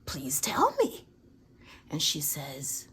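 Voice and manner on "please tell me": mock reverent plea. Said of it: "And I said".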